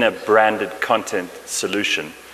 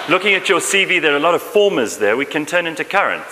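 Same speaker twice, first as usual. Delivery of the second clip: laughing tease; 5 semitones higher than usual. Real, not acted. Teasing host about his CV.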